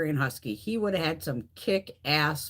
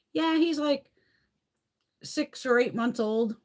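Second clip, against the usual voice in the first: high, slow mock of their lie; mocking claim; 8 semitones higher, slower than usual. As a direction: ape their fake innocence up high.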